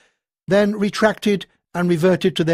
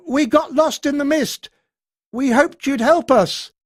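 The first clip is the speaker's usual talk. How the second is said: higher voice, calling across; 9 semitones higher, 4 dB louder than usual. A narrator's reading. Keith calling to the voice over Marie's whimpering. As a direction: call out hopefully to strangers. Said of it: "He called out".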